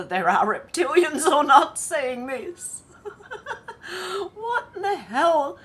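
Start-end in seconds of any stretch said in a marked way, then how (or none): 3.0-5.6 high, breaking laugh into the words; real laughter, barely getting the words out; laughing at a video clip, loud and high; laughing disbelief. Real, not acted.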